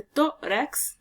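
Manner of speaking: slow, separated syllables; teacher sounding out a word. Shown as a demonstration. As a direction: split the word slowly into its syllables. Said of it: "al separarlas en sílabas".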